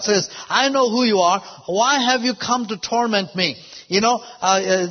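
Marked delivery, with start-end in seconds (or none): 0.5-3.6 higher-pitched, lightly acted cry; demons crying out. Demons exposed by Jesus, lightly acted outcry. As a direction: call out as exposed demons, understated. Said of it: "the demons cried out".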